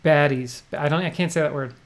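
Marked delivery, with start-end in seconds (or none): 0.0-0.6 Baddies in a New Jersey accent, pædiz with a flat a. Shown as a demonstration. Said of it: "my New Jersey accent".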